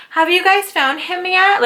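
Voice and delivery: mock sweet question, high and slow; mocking neighbor. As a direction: parody her fake innocent concern. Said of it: "for you just to be like".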